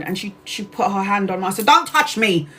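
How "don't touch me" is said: angry. Retold or imitated. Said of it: "I was so angry".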